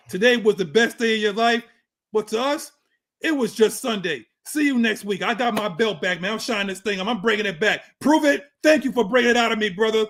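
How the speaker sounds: hyped wrestler promo voice; wrestling promo. Pretend. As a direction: brag like a champion on the mic. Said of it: "Promo over".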